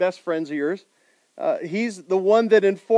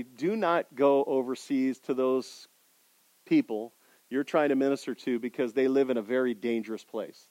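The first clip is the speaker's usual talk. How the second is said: soft warning; 5 semitones lower, 5 dB quieter than usual. Retold or imitated. Wife warning husband, softly.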